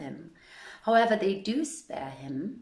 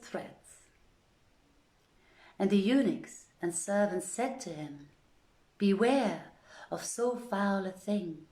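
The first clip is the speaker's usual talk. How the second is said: measured storybook reading, lightly voicing the uncle; story narration. A narrator's reading. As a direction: read the old tale aloud to listeners, unhurried. Reads the Arabian Nights aloud.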